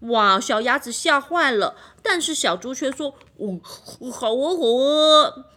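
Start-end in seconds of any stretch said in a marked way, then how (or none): 3.4-5.5 eager agreement. Acted. Piggy happily agrees.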